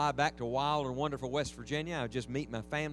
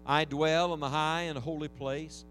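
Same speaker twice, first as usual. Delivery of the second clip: scripture reading. Acted. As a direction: read it out with reverent weight.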